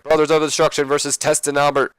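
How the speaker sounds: lightly voiced excited ring announcer call; J R commentary. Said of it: "while J R's like".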